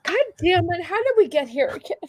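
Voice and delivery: tipsy rambling. Real, not acted. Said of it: "a bottle of Prosecco".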